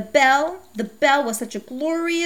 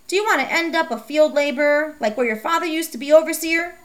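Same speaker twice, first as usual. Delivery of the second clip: scolding mother; 5 semitones higher than usual. Acted. Mom scolding Becky for wanting a bike, high and exasperated. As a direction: play a sharp, fed-up mother.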